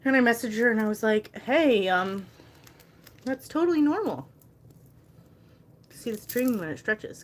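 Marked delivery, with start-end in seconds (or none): 1.4-7.2 bright, high customer-service sweetness, pitched well up; overly sweet reply. Retold or imitated. Seller messaging a complaining customer, overly sweet and high. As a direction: smile through it and reassure her.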